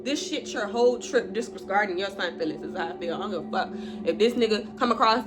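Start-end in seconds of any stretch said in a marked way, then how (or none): 0.0-1.3 angry outburst. Real, not acted. Confronting him over his son.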